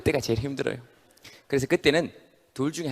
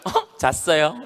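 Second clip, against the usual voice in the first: light laugh through the excuse; sheepish laughing reply; 3 semitones higher, much slower than usual. Retold or imitated. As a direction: admit it with a sheepish giggle. (교수에게 웃으며 변명하는 학생, 멋쩍은 웃음)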